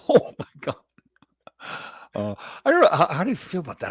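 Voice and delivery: high, amazed laughing outcry; laughing disbelief. Real, not acted. Host watches teammate's chop, high laughing disbelief. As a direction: react to something outrageous. Laughing shock at fight video.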